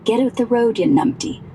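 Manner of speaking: playful Glaswegian road-rage shout; Glaswegian mock yell. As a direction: bawl like a Glaswegian driver, half in earnest. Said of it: "I'd be screaming".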